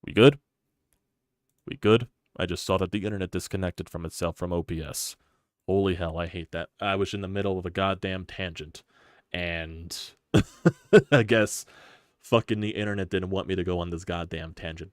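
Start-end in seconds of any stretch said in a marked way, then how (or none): 0.1-2.1 loud, rising check-in call into the mic. Real, not acted. Checking stream after disconnect. 10.3-11.1 a loud, high exasperated laugh; burst of laughter. Real, not acted. Laughs at lost connection.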